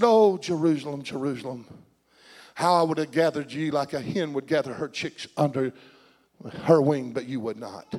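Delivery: low, hushed mourning over a city; sorrowful lament. Acted. Preacher as Jesus weeping over Jerusalem, low lament. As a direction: grieve softly, letting the phrases sink away. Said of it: "he wept bitterly".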